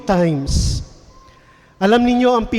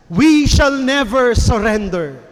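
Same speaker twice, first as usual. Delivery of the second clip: louder, rallying cry; rousing declaration; 3 dB louder than usual. Shown as a demonstration. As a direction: proclaim it to the troops. Churchill line, repeated twice. (malakas at nag-aalab na pahayag)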